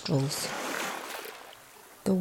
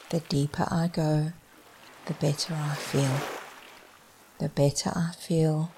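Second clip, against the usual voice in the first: trailing off; 5 dB quieter than usual. Shown as a demonstration. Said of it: "As my voice trails off".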